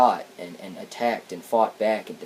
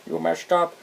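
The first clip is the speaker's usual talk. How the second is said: higher, louder whiny mock voice; whiny jerk voice; 7 semitones higher, 4 dB louder, slower than usual. Mocking the Triple Changers blaming Soundwave, whiny higher voice. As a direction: whine it like a spoiled brat. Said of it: "be all whiny and jerky".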